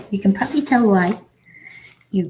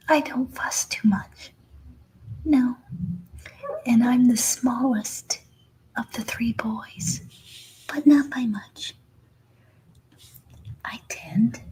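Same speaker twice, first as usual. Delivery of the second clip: whispered puppy voice. Pretend. Voicing the puppy's thoughts.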